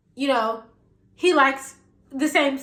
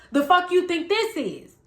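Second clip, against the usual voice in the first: higher-pitched mock indignant retort; acted confrontational comeback; 5 semitones higher than usual. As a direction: imitate him firing back in a quarrel. Acted quarrel, his comeback.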